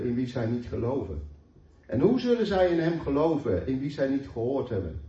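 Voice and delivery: measured, solemn Bible reading with rising questions; scripture reading. Acted. Preacher reads Romans ten to the church, solemn and measured. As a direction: read the passage out to the congregation, unhurried.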